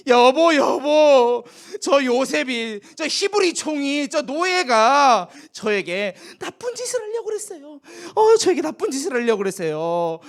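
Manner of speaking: slow, loud whining call to husband; tattling wife. Acted. Wife falsely accusing Joseph to Potiphar, whining. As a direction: cry foul to her husband, wheedling. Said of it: "막 그렇게 일렀어요".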